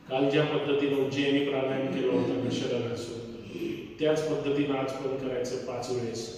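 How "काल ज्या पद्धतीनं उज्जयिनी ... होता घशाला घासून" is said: ordinary delivery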